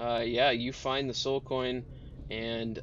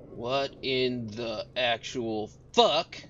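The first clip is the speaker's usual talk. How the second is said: Mad Maggie's outrage; slower than usual. Acted. Mad Maggie confronts the party.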